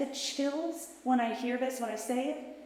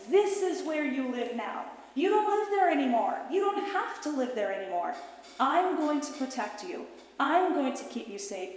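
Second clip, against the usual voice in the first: higher, lifted voice full of encouragement; bright reassurance; 5 semitones higher than usual. Acted. Adult self showing her inner child the new home, bright and reassuring. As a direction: show her the good life with hope.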